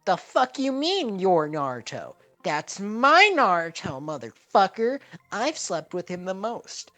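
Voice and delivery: very high, loud, slow furious screech; jealous Sakura shouting. Acted. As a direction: claim him in a jealous rage. Sakura claiming Naruto, shouting.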